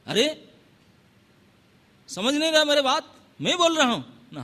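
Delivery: a frustrated king repeating his order; exasperated lord. Acted. Rama losing patience.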